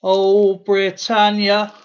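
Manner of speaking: slow, loud drawn-out Britannia; drawn-out Britannia call. Retold or imitated. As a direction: stretch the Oh out loudly. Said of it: "He's going Britannia".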